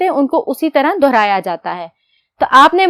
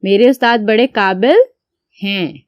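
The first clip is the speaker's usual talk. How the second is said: dictation; 4 semitones lower than usual. Shown as a demonstration. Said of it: "आप मेरे साथ साथ लिखें".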